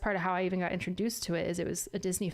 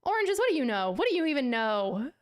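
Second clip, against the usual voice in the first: mock indignant; 3 semitones higher, 4 dB louder than usual. Mock scolding the oranges.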